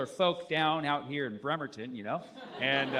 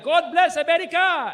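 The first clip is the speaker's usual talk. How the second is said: high, loud festival shout; mock stage shout; shouted announcement; 11 semitones higher, 8 dB louder than usual. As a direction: belt it out like a stadium MC. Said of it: "And then he's like".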